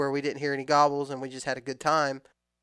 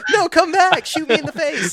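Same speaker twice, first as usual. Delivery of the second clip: much higher, louder desperate begging; mock turkey plea; 14 semitones higher, 10 dB louder than usual. Turkey begging the hunter to return, high comic pleading. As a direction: plead like the turkey left behind.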